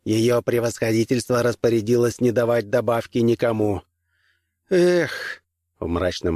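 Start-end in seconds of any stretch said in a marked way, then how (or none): 0.0-3.8 booming metallic robot voice; flat mechanical announcement. Acted. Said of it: "ответил тот металлическим голосом". 4.7-5.4 high, dejected groan; disappointed sigh. Acted.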